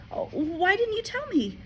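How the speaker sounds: high, hurt reproachful cry; hurt girl. A narrator's reading. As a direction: feel betrayed. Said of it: "Matilda cried".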